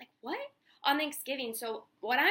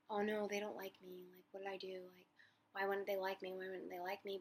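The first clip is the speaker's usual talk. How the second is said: anxious inner voice; 6 dB quieter than usual. Retold or imitated. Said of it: "I'm preaching this to myself".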